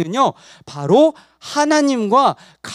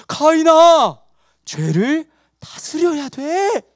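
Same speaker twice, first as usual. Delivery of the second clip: God admonishing; 5 semitones higher, much slower than usual. Acted. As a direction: call out as God, then urge slowly. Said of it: "하나님이 말씀해 주셨잖아". (힘주어 타이르는 하나님 연기)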